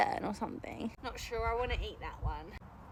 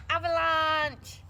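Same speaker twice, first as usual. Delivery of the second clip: dramatic call; 4 semitones higher, 7 dB louder, much slower than usual. Real, not acted. Potatoes tumbling out.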